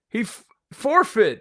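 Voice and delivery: a slow, high mock Doc Brown; imitating Doc Brown. Imitating Doc Brown to his friend, high and slow. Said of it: "And he goes like".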